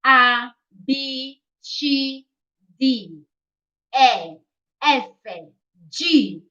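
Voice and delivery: Italian letter names, spaced out for learners; Italian alphabet. Shown as a demonstration. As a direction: read "A, B, C, D, E, F, G" as Italian letter names: ah, bee, chee, dee, eh, effe, jee. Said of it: "start from the alphabet".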